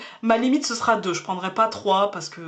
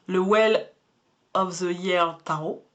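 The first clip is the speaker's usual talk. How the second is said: Well of the Year Tarot said with a heavy French accent, English words read the French way; a self-conscious French speaker stumbles through the English tarot name "Well of the Year Tarot"; thick French accent on English. Real, not acted. Tarot reader apologizes to viewers, then reads the English deck name in a thick French accent. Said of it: "pardonnez mon accent à couper au couteau".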